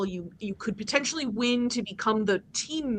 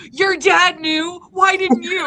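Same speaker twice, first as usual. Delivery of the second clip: Aaron's teasing question; 7 semitones higher, 9 dB louder, slower than usual. Retold or imitated. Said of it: "Aaron looks at me and goes".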